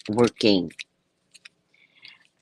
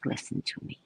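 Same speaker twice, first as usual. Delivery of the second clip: retold whisper; 5 semitones lower, 5 dB quieter than usual. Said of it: "I was like".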